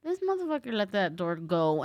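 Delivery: ordinary talk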